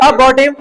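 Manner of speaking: अबॉर्टिव with no r before the t; silent r. Shown as a demonstration. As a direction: repeat अबॉर्टिव as "a-baw-tiv" for learners. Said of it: "sir आर silent रहती है".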